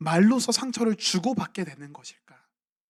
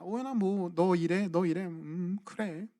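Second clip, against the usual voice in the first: calmly brushing it off; 7 dB quieter than usual. Retold or imitated. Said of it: "이러면서 그냥 넘기는데".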